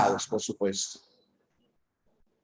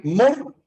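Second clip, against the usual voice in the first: "mor" set apart, higher; isolated syllable; 6 semitones higher than usual. Shown as a demonstration. Teacher counting off the syllables of murciélago, isolated syllable. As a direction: say "mor" as one detached syllable. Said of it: "es una sílaba".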